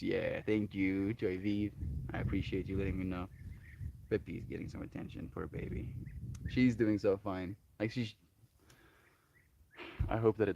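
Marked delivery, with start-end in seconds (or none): 4.1-5.9 whispering. Real, not acted. Cooing over cat on camera.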